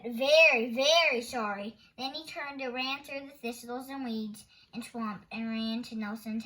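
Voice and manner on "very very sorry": shouted threat. Acted. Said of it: "Thorndyke shouted".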